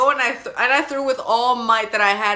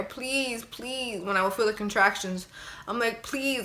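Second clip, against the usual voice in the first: soft plea; 6 dB quieter than usual. Retold or imitated. Begging husband quietly during contractions.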